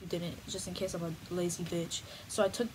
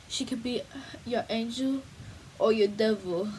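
dramatic; 3 dB louder than usual. Pretend. Dramatic slogan, whisper to loud.

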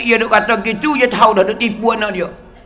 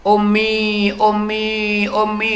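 mock child's wail; much slower than usual. Hungry child who cannot sleep calls mother, imitated drawn-out wail. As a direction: imitate a child plaintively stretching the word for mother. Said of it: "Budak duk teriak dalam rumah".

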